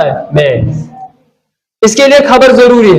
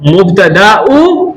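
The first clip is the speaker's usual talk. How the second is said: slow drawn-out answer; 3 semitones lower, much slower than usual. Shown as a demonstration. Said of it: "तो हुआ बन गया यहाँ पे क्या?".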